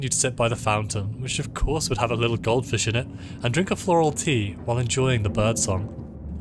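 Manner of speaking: lightly voiced game narration; story narration. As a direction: read the story text aloud, evenly paced. Reads game narration aloud.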